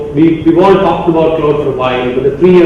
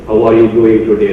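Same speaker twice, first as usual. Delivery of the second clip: Madrasi accent; 5 semitones lower than usual. Shown as a demonstration. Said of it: "I've got this thick Madrasi accent".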